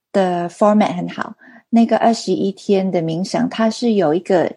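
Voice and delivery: Mandarin with a non-native accent; halting Mandarin, foreign accent; foreigner speaking mandarin. Real, not acted. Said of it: "因为我中文不太好".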